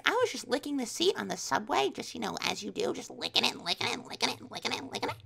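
breezy mock confession, speeding through the repeats; mock mom. Comic parodying mom's excuse, mock mom. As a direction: parody mom, starting high then racing.

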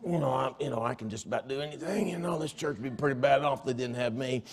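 lightly voiced boastful small-town deputy; Barney Fife. Preacher mocks a proud church member as a hint of Barney Fife. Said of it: "that Barney Fife".

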